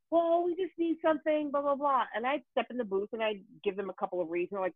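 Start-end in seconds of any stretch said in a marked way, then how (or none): 0.1-2.0 engineer brushing off. Retold or imitated. Engineer voiced, higher pitch.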